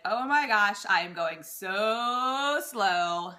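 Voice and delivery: exaggerated oh my gosh, slowly; playfully groaning at the slow pace; mock exasperation. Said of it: "it feels painfully slow to you".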